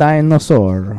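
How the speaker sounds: put-on slow, drawn-out Italian accent; mock Italian accent. Playing along with friends' bit, slow mock Italian accent. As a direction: stretch each syllable in a joking Italian accent. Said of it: "everything can be Italian".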